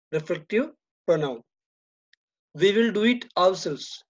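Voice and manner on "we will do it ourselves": teacher marking the stress on We; stress on the subject. Shown as a demonstration. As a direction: lean on We before ourselves. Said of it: "There is a stress on the subject".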